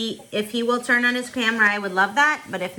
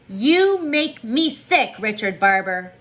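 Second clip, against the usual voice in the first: mock yell; slower than usual. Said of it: "I yelled at him".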